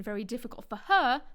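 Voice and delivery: "her" stressed to set it against another person; contrastive stress on HER. Shown as a demonstration. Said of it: "the comparison between".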